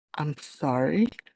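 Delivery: very low, soft, hushed whisper. Playing India, speaking so only Joji hears, very low whisper. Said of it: "She whispers".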